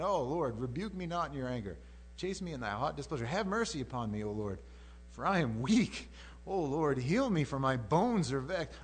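mildly acted plea to God; a touch of anguished appeal; crying out. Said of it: "And he's crying out, saying".

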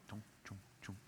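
quiet chunking footstep noises; hushed little sound effect, step by step; imitated footsteps. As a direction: softly imitate steps plodding on water.

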